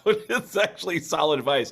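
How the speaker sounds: talking through a laugh. Real, not acted. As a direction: laugh while giving praise. Laughs at the advice.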